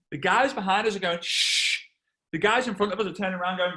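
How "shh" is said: sharp imitated shush; long hissed shh. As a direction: hush from the row behind. Cinema audience shushing.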